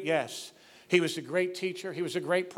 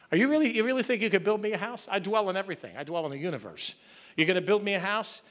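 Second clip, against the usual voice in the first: sarcastic; 3 semitones higher, faster than usual. Retold or imitated. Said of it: "A little sarcasm there on God's".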